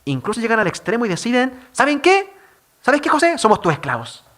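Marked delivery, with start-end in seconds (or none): 1.7-3.4 pleading brothers. Retold or imitated. Brothers beg José for mercy.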